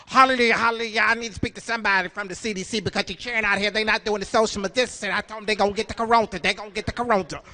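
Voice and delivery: lightly voiced comic film character; Madea. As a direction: act out an indignant churchgoing matriarch, lightly. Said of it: "starring Tyler Perry as Madea".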